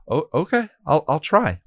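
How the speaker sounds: high, hesitant and unsure; nervous promise. Acted. Timid witch answering the watcher, nervously. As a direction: stammer out a worried yes. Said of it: "she promised".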